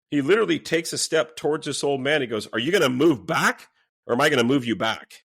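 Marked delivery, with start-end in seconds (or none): 2.5-5.2 louder, mildly menacing imitation; retold threat. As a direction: act out a bully's challenge. Retelling the man threatening elder.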